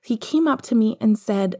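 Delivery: put-on worried little boy; young Harry. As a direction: speak as a small child fumbling the words. Narrator voices young Harry.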